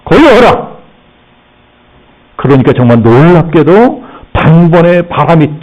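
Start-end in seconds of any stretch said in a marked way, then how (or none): 0.0-0.8 rebuking command. Acted. Jesus commanding wind and sea, stern rebuke. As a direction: command it sternly, rising in pitch on the second. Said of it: "바람을 꾸짖습니다".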